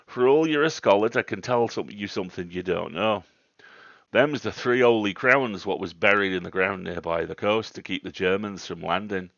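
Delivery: put-on old local countryman holding forth. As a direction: tell the scholar emphatically, in dialect. Old man boasting of local secret.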